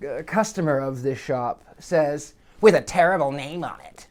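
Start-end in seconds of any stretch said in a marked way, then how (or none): 2.6-4.1 mock disapproving mutter; a light frowny grumble of disapproval; sort of frowny. Customer grumbling at the plate, sort of frowny. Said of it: "Like that, sort of frowny".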